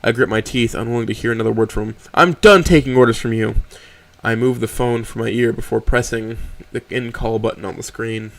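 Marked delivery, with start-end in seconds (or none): 2.1-3.5 loud, firm dismissal; cold anger. Acted. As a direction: slam the door on him with words. Trish ending the call.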